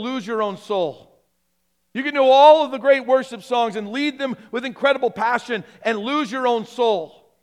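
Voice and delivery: impassioned preaching. Acted. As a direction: preach it as a building warning, landing each refrain.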